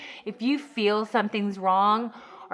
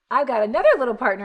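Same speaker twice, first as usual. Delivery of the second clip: delighted gasp; 2 semitones higher, faster than usual. Retold or imitated. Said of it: "and you're like".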